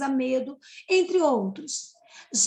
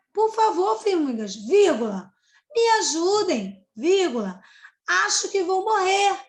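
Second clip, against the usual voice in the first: a lightly pleading, higher plea with the commas read out; pleading cicada; 5 semitones higher, 4 dB louder than usual. Acted. Teacher rereading the cicada's plea with punctuation, lightly pleading. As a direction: beg for help, naming each comma. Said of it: "A cigarra vai falar".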